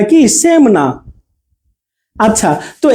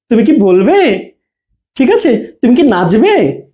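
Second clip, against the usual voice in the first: "তুমি কি" joined, then a slow tune on the verb; short "কি" without a pause before it; attached কি; slower than usual. Shown as a demonstration. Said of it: "attach হয়ে আর কি". ("তুমি"-র সাথে "কি" জুড়ে)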